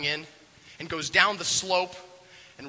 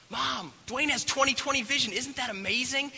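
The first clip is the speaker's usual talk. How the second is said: high-pitched, thrilled announcement; gleeful kid cheering; excited child; 10 semitones higher than usual. Acted. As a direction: share amazing news with Mom, voice way up. Girl announces great news to Mom.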